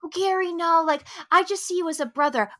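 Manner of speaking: gentle, considerate letdown. Retold or imitated. Host imitates woman turning Gary down, carefully respectful. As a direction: let him down kindly, in imitation. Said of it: "to be respectful of his feelings".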